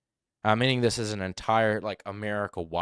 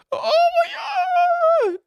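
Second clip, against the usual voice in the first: very loud, drawn-out mock squeal; sudden squeaky wail; 11 dB louder, much slower than usual. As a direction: imitate a liar's pitch leaping sky-high. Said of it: "suddenly very high and squeaky".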